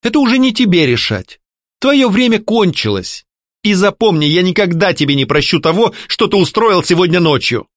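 firm anger. A narrator's reading. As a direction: lay down the law.

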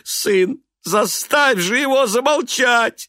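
high, loud desperate cry; frantic plea. A narrator's reading. Weeping mother begging her son. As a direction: beg her son to stop him. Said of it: "сказала она".

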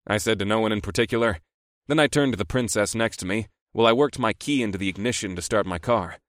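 plain reading voice

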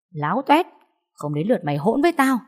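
high, sharp rebuke; scornful snap. Acted. Mother-in-law scolding her daughter-in-law after a slap, angry. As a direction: put her in her place.

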